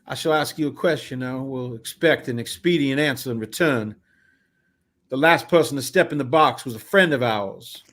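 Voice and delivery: formal, slightly grand questioning; lightly voiced carnival man. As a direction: lay out the case with mild ceremony. Voices a game character.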